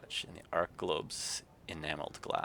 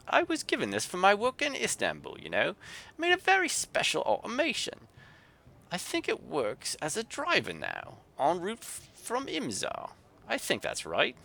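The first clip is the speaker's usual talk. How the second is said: put-on thick Yorkshire accent, much higher and louder, grumbling; a cross Yorkshire artificer grumbling; Yorkshire grumble; 12 semitones higher, 5 dB louder than usual. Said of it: "in a thick Yorkshire accent".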